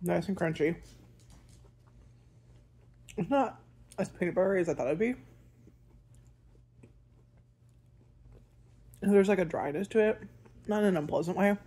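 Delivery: chewing between words; talking while chewing. Real, not acted. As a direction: mouth partly full. Seen 0: Lips pressed, jaw working between phrases; bar held near face early on.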